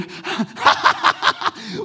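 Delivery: high breathy mocking laugh; friend's high mocking laugh. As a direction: cackle at a friend who fell. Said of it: "you know what he did".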